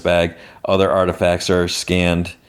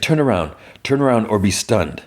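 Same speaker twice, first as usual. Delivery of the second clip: retold command; 3 semitones higher than usual. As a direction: order them at gunpoint, lightly acted. Retold order at blaster point.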